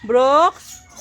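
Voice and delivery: name drawn upward as if summoning someone; calling out. Shown as a demonstration. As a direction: model a rising call for a toddler. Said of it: "Sabi mo". (pagtawag na pataas ang tono)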